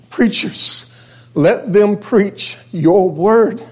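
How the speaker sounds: a hint of a grandmother's slow, pleading prayer, drawn out high; tearful prayer. A grandson recalls his great-grandma praying for preacher sons, lightly voiced, slow and pleading. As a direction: pray it slowly as a weeping old woman. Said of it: "crying and praying and saying".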